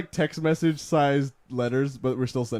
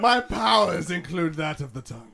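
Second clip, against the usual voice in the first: mock grand voice; 2 semitones higher than usual. Grand proclamation continues.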